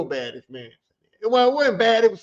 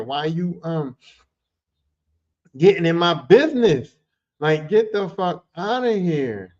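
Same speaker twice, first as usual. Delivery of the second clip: higher, indignant rant; mock rant; 6 semitones higher than usual. Scolding the pushy stripper, indignant rant. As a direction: tell her off, raising the pitch.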